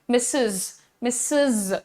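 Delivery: मिसेस said softly as "missiz" with a z ending; modelling missus. Shown as a demonstration. Teacher models मिसेस for the class, softly. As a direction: repeat मिसेस slowly, with the z sound. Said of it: "इसका pronunciation होता है मिसेस".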